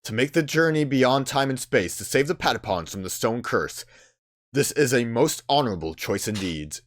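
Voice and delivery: measured, formal pronouncement; stately character reading; solemn spirit, approving. Acted. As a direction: intone it like a wise otherworldly judge. Voices solemn game spirit.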